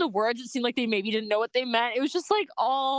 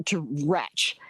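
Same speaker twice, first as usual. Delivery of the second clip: whisper; 5 semitones lower than usual. Real, not acted. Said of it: "causing me to".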